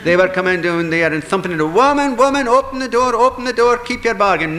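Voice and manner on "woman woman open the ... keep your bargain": high, loud, furious shouting at the door; angry pounding demand. Acted. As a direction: fairies banging and hollering to be let in.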